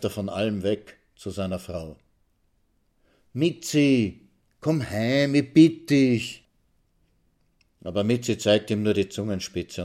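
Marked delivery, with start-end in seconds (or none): 3.3-6.4 higher, pleading call to a wife; flehender Ehemann. A narrator's reading. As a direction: plead with her, drawing out the last words. Pleading with his wife to come home. (flehentlich bittend)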